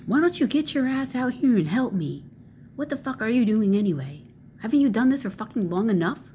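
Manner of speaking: high, loud nagging yell; mock angry parent. Imitating an angry parent yelling at the kid to come help. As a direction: shout like a fed-up parent calling the kid out.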